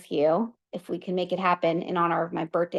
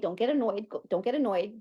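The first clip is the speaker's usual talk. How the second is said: softer, repeating it to herself; quiet self-talk; 5 dB quieter than usual. Pretend. Repeating calming words to herself.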